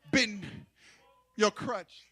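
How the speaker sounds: normal talking voice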